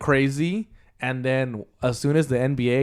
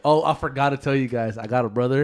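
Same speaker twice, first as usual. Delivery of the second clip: louder, offhand sudden reveal; mock film-character announcement; 2 semitones higher, 5 dB louder than usual. Movie character suddenly reveals a long-lost brother, mock announcement. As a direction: announce it as if just remembered.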